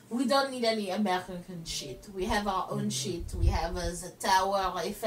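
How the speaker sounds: put-on low French-accented disdain; sniffy fake French accent; French mindset. French dismiss American things, disdainful mock French. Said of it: "in their minds they're like".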